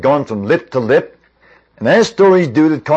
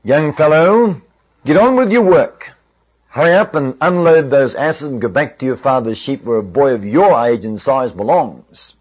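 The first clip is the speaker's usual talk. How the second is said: rough brush-off. Retold or imitated. Older brothers ordering young David back to work, rather roughly. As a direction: send a youngster packing, a little roughly. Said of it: "said to him rather roughly".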